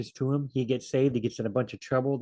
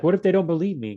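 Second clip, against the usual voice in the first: worried Moses; 5 semitones higher, 5 dB louder, faster than usual. Retold or imitated. Moses voiced pleading with God.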